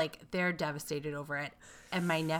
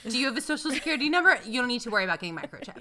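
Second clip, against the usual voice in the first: fast, higher PSA pitch; mock PSA announcer; 5 semitones higher, much faster than usual. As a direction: rattle it off like a public service ad.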